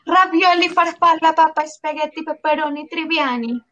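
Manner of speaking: hammed-up Italian word string; mock Italian accent. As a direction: rattle off Italian foods in a fake Italian accent. Italian word string on arriving in Italy.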